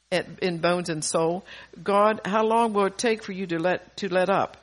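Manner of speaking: emphatic plea read aloud; insistent psalm reading; scripture reading. Acted. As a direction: read a worn-out plea to God for a congregation. Reads psalm in modern wording.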